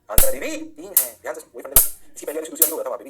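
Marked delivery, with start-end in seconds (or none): 0.1-1.1 sudden loud burst of insistence; much louder, forceful restatement; emphatic answer repeat. Shown as a demonstration. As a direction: hammer the answer home loudly.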